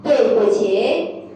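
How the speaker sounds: slow phrase, syllable by syllable; drawn-out teaching pronunciation; slow teacher model. Shown as a demonstration. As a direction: model it slowly for a learner.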